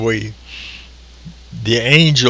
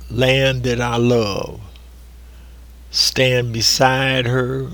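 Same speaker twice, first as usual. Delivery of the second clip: recited lyrics. Acted.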